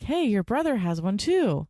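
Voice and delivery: put-on excited mom to child. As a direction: share exciting news with a small child.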